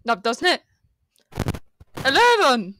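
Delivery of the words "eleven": exaggerated, badly faked American accent; American accent with a swooping middle; attempted American accent. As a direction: stretch it into a mock American accent. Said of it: "not American".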